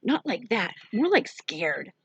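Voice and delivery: put-on slow, solemn child voice, drawn out on scared; lightly voiced earnest little girl explaining; serious little kid. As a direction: say it gravely like a solemn seven-year-old. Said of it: "in that serious little kid kind of way".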